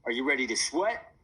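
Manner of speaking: lightly voiced Australian accent. A narrator's reading. Fitness host to viewers on TV, light Australian accent. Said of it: "in an Australian accent".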